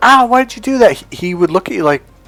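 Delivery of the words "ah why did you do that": acted high-pitched yell, hurt and angry. Acting out how someone kicked would react: imitating someone yelling in pain. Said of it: "you yelled or got mad or like".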